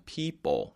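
"People" said "pee-ppo", final L darkened away; reduced ending demo. Shown as a demonstration. Teacher repeating the rule for learners, "People" as "pee-ppo". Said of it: "이뽀가 되죠".

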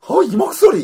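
very high, loud exclaimed demo; high-pitched voice. Shown as a demonstration. Co-host showing off his third voice, high-pitched. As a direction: leap way up into your top voice. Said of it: "이 세 가지 목소리를 내는 사람".

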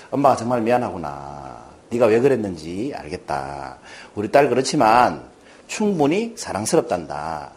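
low, tender apology with unhurried endings; warm, comforting mother. Retold or imitated. Mother hugging daughter and apologizing, warmly reassuring. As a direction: soothe a child gently and sincerely. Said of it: "딸을 따뜻하게 안아주면서 이렇게 얘기하는 거예요".

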